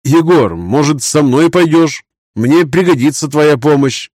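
high, earnest knight voice; a young knight mourning defeat; grieving young knight. Acted.

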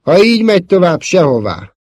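bitter outburst, high and loud then dropping; exasperated retort that falls away at the end; frosty, bitter retort. A narrator's reading. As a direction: fire back, deeply embittered. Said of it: "válaszolta Luke fagyosan, mélységesen elkeseredve".

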